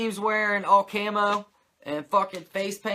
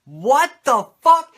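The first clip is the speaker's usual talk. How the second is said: disbelief; 9 semitones higher, 13 dB louder, slower than usual. Real, not acted. Stunned reaction to quote.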